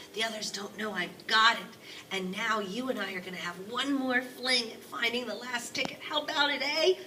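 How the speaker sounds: put-on rope the boy into a scheme; eager old grandpa.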